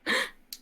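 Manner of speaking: short unvoiced gasp; quick audible intake of breath. Player reacting to the vampire's looks, gasp.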